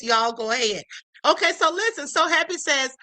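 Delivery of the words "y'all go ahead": calm imitation. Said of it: "then it's calmly says".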